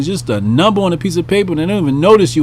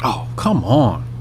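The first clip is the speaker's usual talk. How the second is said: soft, slow, breathy scoff; whispered scoff; 6 semitones lower, 3 dB quieter, slower than usual. Real, not acted. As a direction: scoff under your breath. Scoffing aside.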